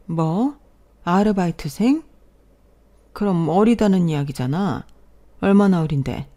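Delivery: taken aback, voice lifting at the end; a startled, questioning reaction; startled parent. Acted. Parent hearing who son's pregnant girlfriend is, startled.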